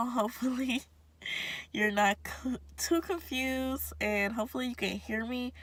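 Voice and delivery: blocked nose, mouth breathing; stuffed-up nose. Real, not acted. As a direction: talk through a blocked nose. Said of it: "because my nose is stuffed up".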